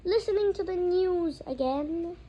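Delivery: loud slow outrage; outraged. A narrator's reading. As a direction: spit it back, outraged. Outraged uncle repeats.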